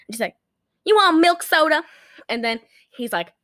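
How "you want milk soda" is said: louder, higher waitress voice; mock incredulous question; puzzled waitress. Waitress to customer ordering egg cream, mock-puzzled.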